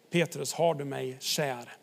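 soft and slow, tender questioning; gentle third ask. Pretend. Jesus asks Petrus a third time, softly and slowly. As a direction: ask it gently, knowing the answer.

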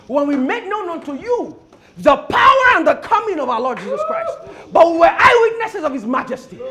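forceful, emphatic preaching. Acted. Preacher insisting to congregation they were eyewitnesses, forceful preaching. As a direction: hammer the testimony home with loud bursts.

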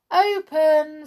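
high, loud calling order; magic command. A narrator's reading. Voice inside orders the door to open, commanding. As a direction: call it out to make the door obey.

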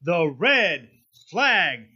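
booming circus announcer intro; ringmaster. Pretend. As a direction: announce it like a big top ringmaster.

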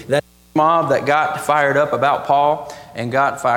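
loud, forceful preaching; real burst of pulpit volume. Real, not acted. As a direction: push the volume up hard. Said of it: "I got a lot louder there".

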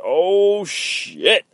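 sudden high startled "oh, shit"; a mock-startled squeak; startled yelp. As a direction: blurt it out, caught off guard. Henchman sees Frank rip counter.

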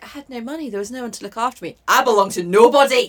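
low plaintive recital, swelling on the last line; mock sad Sarah. Listener parodies Sarah having nobody, mock sad delivery. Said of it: "making it sad, sound sad".

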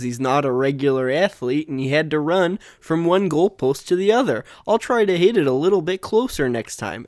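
light mock Canadian accent; polite, apologetic Canadian accent, lightly done. Mocking the batter as an overpolite Canadian, in a light Canadian accent. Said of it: "he had more of a Canadian accent".

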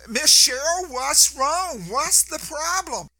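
a nurse calling out in alarm; worried nurse calling. Retold or imitated. Nurse runs after screaming patient.

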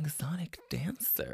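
creaky fry on the words; vocal fry. Shown as a demonstration. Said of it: "That's called vocal fry".

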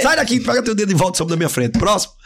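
hammed-up dismissive choleric; rude brush-off. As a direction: shoo them away without patience.

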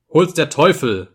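loud, high curse; angry roar. A narrator's reading. Trudoljubo pounding the table at the insult, angry roar. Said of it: "brüllte Trudoljubo".

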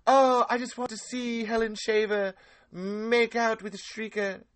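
high, slow goofy deputy drawl; Deputy Winston voice. Retold or imitated. Doing a goofy deputy from Cabin Fever, high and slow. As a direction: ham up the gushing deputy. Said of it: "I can even do".

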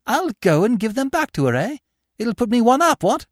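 high-pitched, excitable gentleman; bubbling over with a bright idea; eager upper-class gentleman. Acted.

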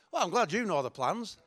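lightly sarcastic, lifting at the end. Retold or imitated. Believer answering God about his plans, sarcastic. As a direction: sound mock-glad, with a sarcastic edge. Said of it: "you can get sarcastic sometimes".

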